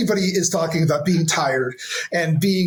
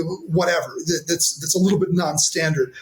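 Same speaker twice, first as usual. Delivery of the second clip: ordinary delivery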